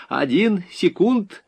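high, drawn-out obliging promise; sugary. A narrator's reading. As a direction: stall them with forced sweetness. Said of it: "презирая себя за слащавость в голосе". (слащаво, заискивающе)

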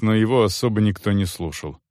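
ordinary delivery, nothing marked

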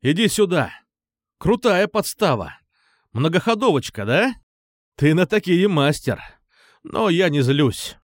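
taunting yet conciliatory call. A narrator's reading. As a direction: coax him out from a distance. Calling out to a hidden friend.

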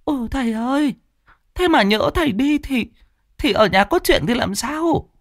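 a fretful housewife begging not to be left alone; worried Bà Bảo. Acted. Bà Bảo worrying to the master as he leaves, high and pleading. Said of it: "thì lo lắng".

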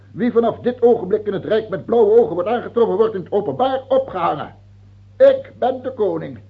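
loud high fast proclamation; royal decree. Acted. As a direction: announce the decree to the court. (luide, hoge, snelle afkondiging)

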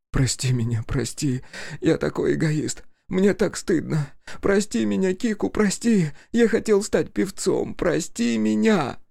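high, tearful pleading through the nose; nasal weeping. A narrator's reading. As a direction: beg forgiveness through tears. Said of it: "Хаси говорил в нос".

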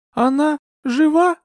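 high, slow, shaky question; trembling voice. A narrator's reading. Dazed Euphemia asks if the victim lives, trembling. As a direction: ask with dread, barely steady. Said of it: "дрожащим голосом".

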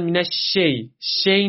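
مینش شی with "shey" instead of "shay"; wrong kasra colour. Shown as a demonstration. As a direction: tilt the vowel of شی toward e. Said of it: "کسری نباید به خودش بگیره". (شینِ شی با حالت کسره، اشتباه)

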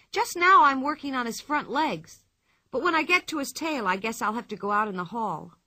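put-on bright cheeky young girl; a cheeky little girl teasing; lively girl voice. Pippi speaking.

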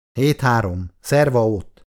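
dry, matter-of-fact score call. Acted. Halász telling Icu the ping-pong score, dryly. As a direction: state the score without feeling. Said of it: "száraz hangon közölte".

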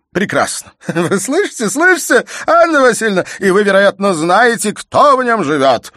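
high, loud, sneering with a bitter laugh; mocking furious triumph. A narrator's reading. Father sneers triumphantly to his wife about their daughter. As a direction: gloat at her in fury.

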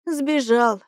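plain reading voice

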